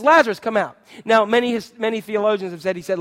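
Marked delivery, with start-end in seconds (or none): 0.0-0.8 "Lazarus, come out" called loud and higher; commanding call. Acted. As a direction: summon "Lazarus" from the grave. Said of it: "He says".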